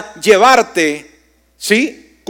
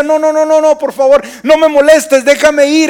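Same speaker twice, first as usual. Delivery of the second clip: retold protest, pitched up and urgent; insistent refusal; 6 semitones higher than usual. Dying father to his clinging daughter, retold insistent pleading. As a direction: imitate a dying man begging to be let go.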